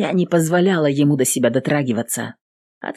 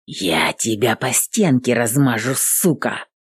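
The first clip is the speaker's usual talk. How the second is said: aggressive hiss; 4 semitones lower than usual. Acted. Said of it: "шипит он агрессивно".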